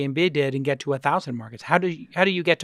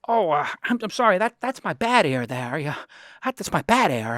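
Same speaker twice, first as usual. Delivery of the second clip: lightly voiced old-film actor, halting; Jimmy Stewart. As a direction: stammer lightly into a hint of an impression. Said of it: "Jimmy Stewart says".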